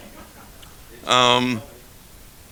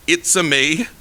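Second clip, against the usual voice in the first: Mario voice; 3 semitones higher, 4 dB louder, slower than usual. Retold or imitated. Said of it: "do the Italian accent?".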